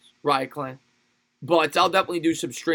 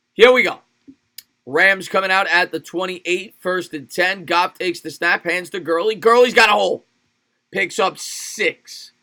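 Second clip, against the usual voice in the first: rising, louder sportscaster call that peaks at the spin; live play-by-play; 2 semitones higher, 5 dB louder than usual. Acted. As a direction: streamer calling his game like a TV broadcaster, excited play-by-play.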